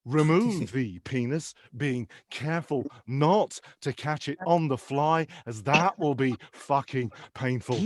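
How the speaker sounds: slow, deliberate cookery instruction; step-by-step chef orders, pausing on each phrase; Gordon Ramsay. Acted. Famous chef talking Darren through a pee, slow instruction. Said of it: "visions of him telling me what to do".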